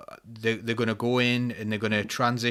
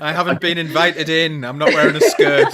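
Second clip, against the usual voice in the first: louder, higher, laughing cartoon-villain whine; mock vampire villain; 5 semitones higher, 12 dB louder than usual. Ridiculing bathroom-panic claims to friends, loud laughing vampire parody. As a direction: ham up a monster barred from entering. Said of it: "like a vampire with a holy cross".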